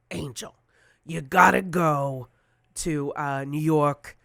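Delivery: lightly voiced raspy New Yorker; slow, insistent retelling in a friend's voice; Dennis Basso. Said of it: "he has this raspy voice".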